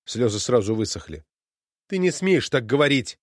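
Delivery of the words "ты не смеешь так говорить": shouted. Acted. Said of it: "крикнула она".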